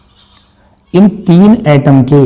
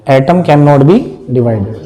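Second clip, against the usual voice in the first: dictation; much slower than usual. Shown as a demonstration. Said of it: "पहला point क्या है".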